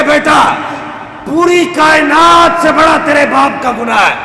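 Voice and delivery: a high, loud tearful cry; weeping. A narrator's reading. The father, weeping, tells his son of his sin. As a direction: cry it out through tears. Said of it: "یہ روتے ہوئے کہتا ہے".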